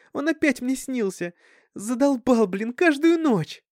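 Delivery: put-on a teenager venting to mom, voice high; upset Dasha. A narrator's reading. (расстроенная Даша, высоким громким голосом)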